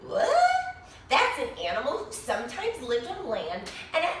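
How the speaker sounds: lively storybook narration with bright rises; animated read-aloud for a class; reading to children. A narrator's reading. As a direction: read it like story time for little kids. Reads picture book to children.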